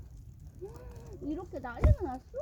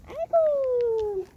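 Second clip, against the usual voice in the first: drawn-out sigh; 9 semitones higher, 6 dB louder, much slower than usual. Real, not acted. Dismay at the rain mess.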